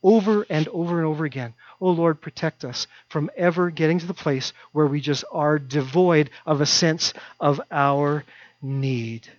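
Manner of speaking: ordinary talk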